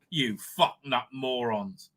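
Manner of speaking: low, slow, spat-out insult; slow contemptuous insult. Real, not acted. Scolding the producers, a slow low contemptuous insult. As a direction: drag out the contempt on each word.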